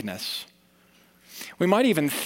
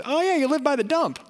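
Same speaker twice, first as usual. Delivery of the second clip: imitating a casual friend; 12 semitones higher than usual. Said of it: "until someone said".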